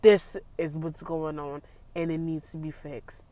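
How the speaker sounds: firm, level, no-nonsense; stern and matter-of-fact; stern demand. Shown as a demonstration. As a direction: state it like it must be fixed. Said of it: "you hear that sternness in my voice".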